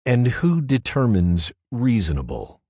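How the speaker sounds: lightly voiced prosecutor snapping back; snarl. A narrator's reading. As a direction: bite the question off. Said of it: "Gibaldi snarled".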